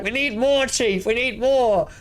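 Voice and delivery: high, slow, hammed-up plea to the chief; pleading captain. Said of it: "And then I'm like".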